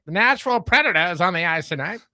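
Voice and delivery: lightly voiced over-dramatic 1930s radio announcer; old-time announcer. Joking about Predators broadcasts, a lightly voiced old-time radio announcer. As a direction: ham up a mid-thirties play-by-play, only lightly. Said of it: "nineteen mid-thirties announcer".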